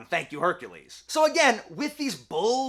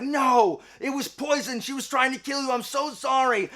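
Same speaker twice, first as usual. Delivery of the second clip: frantic explanation; 5 semitones higher than usual. Retold or imitated. Aegeus frantically explains to Theseus.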